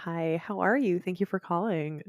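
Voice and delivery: soft, polite phone greeting; customer service voice. Retold or imitated. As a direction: answer like a receptionist on the line. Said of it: "it's your phone voice".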